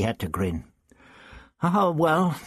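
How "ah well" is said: put-on raised, spluttering young teacher; the teacher Ian, outraged over his tie; indignant Ian. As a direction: Ian protests about his ruined tie. Ian grins.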